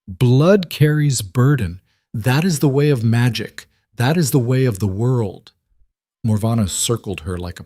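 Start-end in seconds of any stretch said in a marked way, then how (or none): 0.1-5.5 lightly voiced cold witch; ominous witch voice. A narrator's reading. Witch villain pronouncing.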